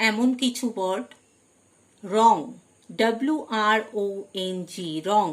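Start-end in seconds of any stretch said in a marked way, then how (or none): 2.0-2.4 "রং" starting straight on R; silent W. Shown as a demonstration. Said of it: "ডব্লিউ silent". ("রং", শুরুতে ডব্লিউ উচ্চারণ না করে)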